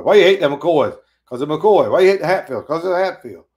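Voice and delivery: loud back-and-forth feud voices; feuding hillbilly quarrel. Pretend. Preacher mocking two feuding families, loud. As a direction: shout it like two feuding clans.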